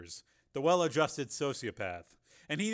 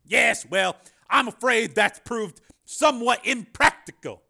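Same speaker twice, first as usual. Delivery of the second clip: much higher, louder Carmen voice; smooth excuse; 12 semitones higher, 14 dB louder, slower than usual. A narrator's reading. Carmen excusing his broken deal, smooth. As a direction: brush it off politely. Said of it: "said Carmen".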